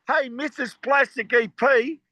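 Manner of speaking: drawn-out, half-hearted yell upstairs-to-downstairs; retold calling out. Band calling his secret wife for coffee, retold yell. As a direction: mildly imitate calling out to someone. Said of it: "So we used to yell at".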